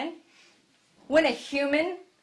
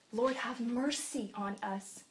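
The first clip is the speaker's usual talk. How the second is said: slow, much softer plea; quiet plea; 6 dB quieter, slower than usual. Shown as a demonstration. Preacher showing the quiet plea, slow and soft. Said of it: "quiet first take".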